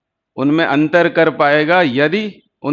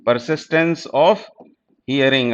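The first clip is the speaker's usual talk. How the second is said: persistence of, each word dragged out slowly; drawn-out teacher repeat so students catch the term; very slow, spelled out; much slower than usual. Shown as a demonstration. Teacher slowly repeating the term for students. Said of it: "repeated slowly for students".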